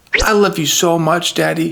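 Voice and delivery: choked up, near tears. Recalling his daughter telling him she loves him, about to cry. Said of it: "I'm going to cry".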